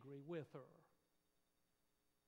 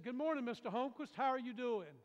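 higher and louder, sunny hello; cheerful greeting; 6 semitones higher, 9 dB louder than usual. Retold or imitated. Mother greeting the sulking neighbour outside church, bright and cheery. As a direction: greet him brightly, as if nothing were wrong.

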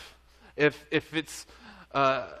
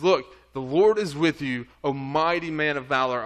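louder, ringing declaration from God; bold proclamation; 4 dB louder than usual. Acted. Pastor voicing God calling Gideon a warrior, bold and loud. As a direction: announce it boldly to Gideon.

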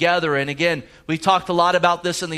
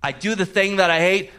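lead-in to triumph; 3 semitones higher than usual. Shown as a demonstration. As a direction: start to lift the voice toward victory. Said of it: "it's a voice of triumph".

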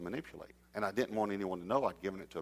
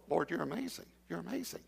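softly, higher, in quiet awe; awed hush; 8 semitones higher, 6 dB quieter than usual. Retold or imitated. Preacher awed by the offering, softly praising God. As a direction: breathe it out in wonder.

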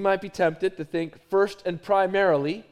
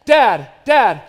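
imitating a kid calling dad over and over, louder; repeated loud child's call for dad; pestering child; 9 dB louder, much slower than usual. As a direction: nag like a child who won't stop. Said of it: "my child who comes to me and says this".

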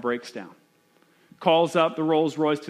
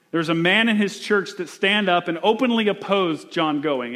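ordinary delivery

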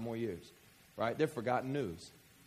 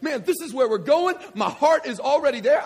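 much higher and louder, thrilled; excited; 10 semitones higher, 11 dB louder than usual. Pretend. Pastor showing how a Christian should feel, ecstatic. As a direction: burst out with joy like a fired-up believer. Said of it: "you're supposed to be like".

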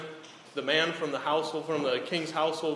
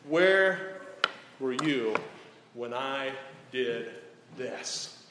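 God speaking from the whirlwind; 2 semitones higher, 4 dB louder than usual. Acted. God rebuking Job out of the whirlwind, booming then hushed. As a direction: thunder the question, then drop away. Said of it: "the Lord God Almighty says to him out of the whirlwind".

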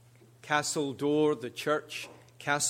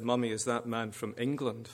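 laughing. Retold or imitated. Preacher joking to the church, laughing through it. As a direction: quote half-laughed out. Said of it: "He could have said".

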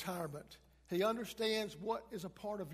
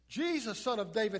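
crying out; 3 semitones higher, 7 dB louder than usual. Acted. Blind man calling Jesus from the roadside, crying out. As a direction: call out as if to be heard over a crowd. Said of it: "he cries out".

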